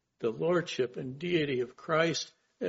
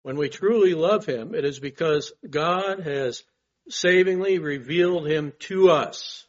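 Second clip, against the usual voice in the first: fervent preaching; 2 semitones higher, 5 dB louder than usual. Acted.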